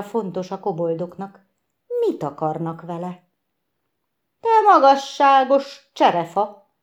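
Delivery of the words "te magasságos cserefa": high, loud cry into the silent night; a bird's exclamation, higher and louder. Acted. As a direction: call out in startled wonder. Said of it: "kiáltott bele Réti a fekete csöndbe".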